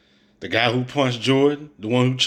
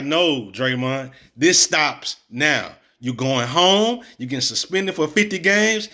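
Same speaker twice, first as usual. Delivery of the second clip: firm leader. Retold or imitated. Mocking a coach to show how he should tell Draymond it stops now, firm leader. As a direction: lay down the law like a no-nonsense coach. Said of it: "That's what a leader would have said".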